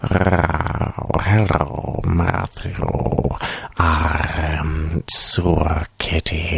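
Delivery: purring voice that sounds underwater; slow purr like you're slowly drowning; a singer's voice. Acted. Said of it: "every time you try to do a singer's voice, it just sounds like you're slowly drowning".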